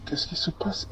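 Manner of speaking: a hushed, breathless whisper of disbelief; whispered worry. Retold or imitated. Wife alone with the kids, whispering in confusion. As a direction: whisper it to yourself, lost and uneasy. Wife lost at the rest stop.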